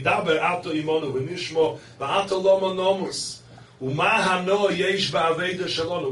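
loud, driving sermon delivery; full-force preaching. Real, not acted. Rabbi expounding the Medrash to his listeners, loud and fervent. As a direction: preach it out with rising fire.

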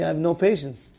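doctor dryly admits he's impatient; doctor's curt reply. Retold or imitated. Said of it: "he tells me".

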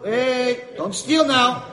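guard catching the man reaching for food; stern guard. Acted. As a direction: bark at him to stop. Guard stopping him eating.

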